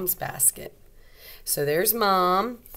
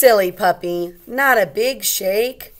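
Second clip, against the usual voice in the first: louder, playful telling-off; gentle scolding; 3 semitones higher, 8 dB louder than usual. Acted. Mom in the story gently telling off the wet puppy.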